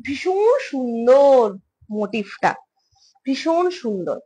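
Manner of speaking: very slow, stretched-out praise; drawn-out admiring. Real, not acted. Praising earrings to viewers, slowly drawn-out admiration. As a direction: savour the words, marvelling.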